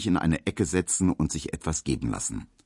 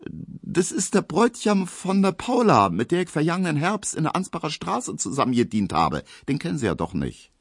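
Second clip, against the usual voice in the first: put-on a brash young maid waving it off; 10 semitones higher than usual. Girls explaining acquaintances.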